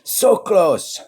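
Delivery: high, loud exclamation; exclaiming. Real, not acted. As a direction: cry out at the near miss. Reacting to opponent's near miss.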